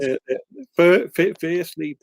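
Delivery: playful demonstration of a Lowestoft accent. Shown as a demonstration. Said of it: "I can do it in a Lowestoft accent".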